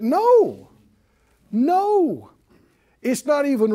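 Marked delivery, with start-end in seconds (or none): 0.0-2.3 firm no. Real, not acted. Emphatic rejection.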